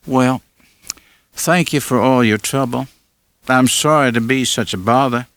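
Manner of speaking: lightly voiced young woman asking, puzzled; Lila's voice. A narrator's reading. Narrator voices Lila thanking.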